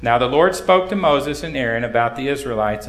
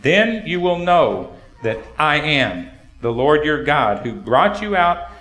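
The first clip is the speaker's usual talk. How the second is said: scripture reading; 2 semitones lower than usual. Acted. Pastor reads Exodus to the congregation, solemn reading.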